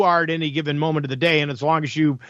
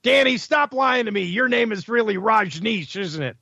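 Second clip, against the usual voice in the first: higher-pitched mock confrontation, drawn-out name; mock going off; 6 semitones higher than usual. Host mock-confronting a spam caller about his name, going off. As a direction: play at catching a caller out. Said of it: "see him going off on that".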